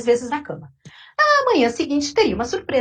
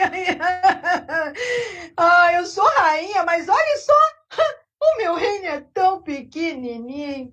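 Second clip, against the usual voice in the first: put-on much higher, loud, tearful whining old woman; crying old lady; 6 semitones higher, 4 dB louder, slower than usual. Old lady wailing in her empty house, high and tearful. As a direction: whimper and wail like a spoiled old lady. Queen moans about small kingdom.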